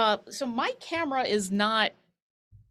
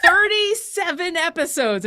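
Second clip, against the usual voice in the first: laughing, louder; 9 semitones higher, 6 dB louder than usual. Real, not acted. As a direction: giggle through it. Laughing over painting door black.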